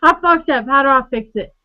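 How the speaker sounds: panicked. Retold or imitated. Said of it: "they're going".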